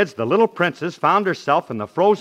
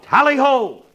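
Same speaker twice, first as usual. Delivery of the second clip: a high, loud hunting cry; rousing mock yell "Tally-ho!"; 11 semitones higher, 5 dB louder than usual. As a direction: yell it like cracking the whip on a dog sled. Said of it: "and yelled".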